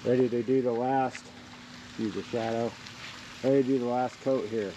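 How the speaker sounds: talking through a respirator mask; words muffled behind a mask. Real, not acted. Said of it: "I got my respirator on still".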